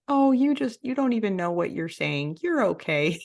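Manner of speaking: lightly voiced doting animal parent, lifted at the start; gently indulge a little one, playfully imitated; imitating a kindly, reassuring animal nanny; loving and gentle. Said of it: "lovingly and gently, like".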